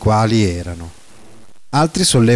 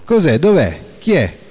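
higher, quick, overlapping questions; agitated crowd cries; 6 semitones higher than usual. A narrator's reading. The crowd asking each other where the spy is, agitated. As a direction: voices of a stirred-up mob. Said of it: "Cento voci si spargono".

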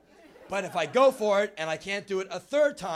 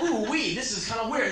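lightly voiced happy mouse; 5 semitones higher, 5 dB louder than usual. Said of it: "kind of happy about it".

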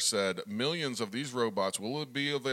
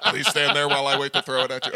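sarcastic robot monotone; 6 dB louder than usual. Pretend. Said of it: "sarcastic robot".

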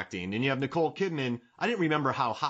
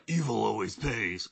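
throaty Batman; 2 semitones lower than usual. Retold or imitated. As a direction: growl it like Batman. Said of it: "The throaty Batman".

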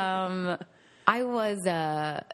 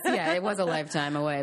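laughing. Real, not acted.

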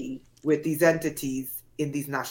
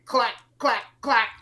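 imitated clacking; 4 semitones higher than usual. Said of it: "Like someone's neck breaking".

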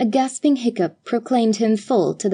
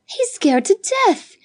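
put-on much higher alarmed girl's cry; exclaiming; 12 semitones higher than usual. A narrator's reading. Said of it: "exclaimed Judith".

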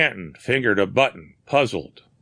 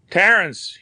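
crying out the name in grief, higher and louder; grief-stricken cry; 10 semitones higher, 4 dB louder than usual. Acted. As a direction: call out to a dead friend. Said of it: "he cried".

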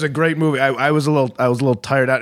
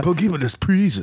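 high, hammed-up bad Asian accent; mock Asian accent with a laugh; 7 semitones higher than usual. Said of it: "Who's doing a good Asian accent?".

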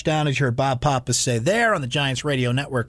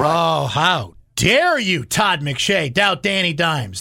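mock outrage; much slower than usual. Real, not acted.

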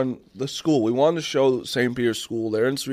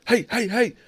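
much higher mock yell of an angry security guard; imitating the guard yelling at them, pitched way up; retold angry yell; 10 semitones higher than usual. Campus guard yelling at the podcast crew, mock yell. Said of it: "when he was yelling".

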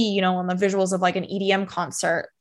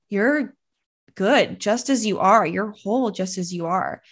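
gentle big sister voice. Retold or imitated. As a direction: soothe yourself gently like a big sister would. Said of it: "It felt like a big sister energy".

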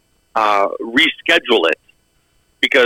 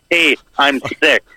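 mock sick call; 3 semitones higher, slower than usual. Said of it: "be fucking straight-faced about it".

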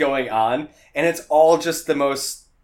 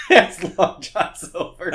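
David Cross impression; 4 semitones higher, slower than usual. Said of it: "Imagine if it was David Cross".

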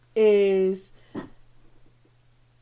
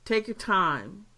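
sincere; 5 dB quieter than usual. Real, not acted. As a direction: gently urge listeners. Sincere request to listeners.

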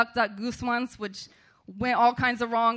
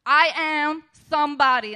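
proud demand; 3 semitones higher, 4 dB louder than usual. Retold or imitated. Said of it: "say it like you mean it and say it with pride".

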